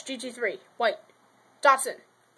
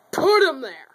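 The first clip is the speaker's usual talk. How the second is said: louder, exasperated command on "Put"; frustrated; 2 semitones higher, 5 dB louder than usual. Real, not acted. Kid frustrated by messy toy race, barking louder. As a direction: snap it out, fed up with the mess. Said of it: "I am extremely frustrated".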